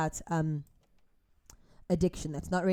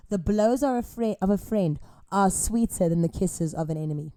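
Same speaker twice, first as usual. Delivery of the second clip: scripture reading; 5 dB louder than usual. Real, not acted. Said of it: "This is a scripture".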